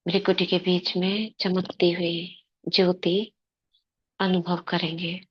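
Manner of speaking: calm, even invocation with long pauses; guided meditation. Acted. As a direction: lead them gently into meditation, phrase by phrase. Leads meditation and invocation before class. (शांत, ठहराव भरा ध्यान कराने का स्वर)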